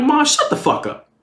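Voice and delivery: high, exasperated comeback to mom; fed-up son, voice jumping high. Retold or imitated. Retold quarrel with his mother.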